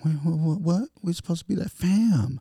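high, squeaky mock disbelief; mock shocked husband. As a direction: act stunned that the dream is broken.

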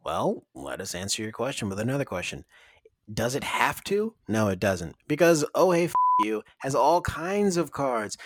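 playful commercial voice; ad read. Acted. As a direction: read it like a radio spot. Ad read continues.

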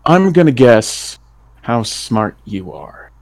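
drawn out, playful challenge; slow teasing taunt. Acted. Mark teasing the doctor, slow playful taunt. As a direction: savour each word like a game.

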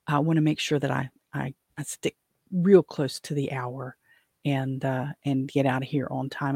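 rattly allergy voice; slightly rattly, creaky throat; creaky onset. Real, not acted. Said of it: "the rattly, um, voice and the clearing of my throat".

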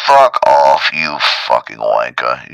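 low, very loud, drawn-out cursing; Caps impression. Caps the alarm cursing a sleeper, loud low impression. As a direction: snarl abuse as the rude alarm. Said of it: "Come on, Caps".

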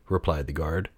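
plain reading voice

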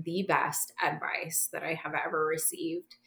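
hushed confiding whisper. Real, not acted. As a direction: breathe it like a secret. Confiding best advice ever.

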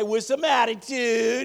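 high, loud rallying shout, stretched out; with attitude. Shown as a demonstration. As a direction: belt it out slowly with full attitude. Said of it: "Say it with attitude".

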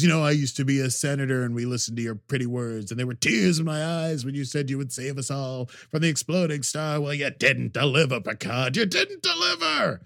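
mock-bitter accusation, rising to a high cry; angry Romulan ex-senator. Romulan ex-senator accusing Picard, mock bitter. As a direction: scold Picard for failing, building. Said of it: "I almost did a Picard there".

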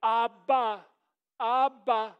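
imitated first-word coaxing; coaxing a baby. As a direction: stretch the word out for an infant to copy. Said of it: "get over that child and you'd say".

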